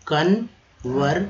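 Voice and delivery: kanvar- drawn out slowly, broken off; syllable by syllable. Shown as a demonstration. Teacher breaking the word कन्वर- into parts for students. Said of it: "ठीक है, कन्वर्सेशन".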